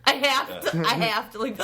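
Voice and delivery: real laughter breaking the words; can't get it out for laughing. Real, not acted. Laughing while retelling.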